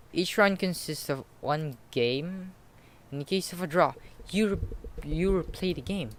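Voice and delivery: slow, loud, earnest rule explainer; nerdy boy voice. Acted. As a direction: lay out the rules slowly like a nerd. Voices Electronic explaining rules.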